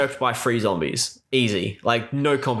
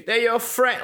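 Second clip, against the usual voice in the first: stiff wooden line read, pitched up; bad acting; 8 semitones higher than usual. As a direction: say it like a bad actor, flat and forced. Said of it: "like, the worst acting ever".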